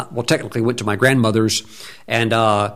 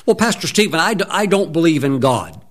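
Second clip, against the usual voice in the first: higher mock objector; mock atheist objection; 5 semitones higher than usual. Imagined atheist objecting to the pastor, lightly higher. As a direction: lightly voice a doubter.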